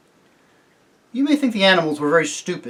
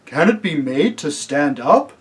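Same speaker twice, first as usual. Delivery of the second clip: thoughtful. A narrator's reading. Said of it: "said the elephant thoughtfully".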